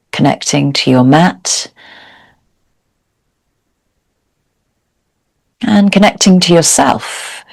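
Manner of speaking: calm, measured yoga teacher's guidance with long pauses; guided meditation. Real, not acted. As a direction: guide them gently into stillness, leaving space between phrases. Leads a seated yoga meditation.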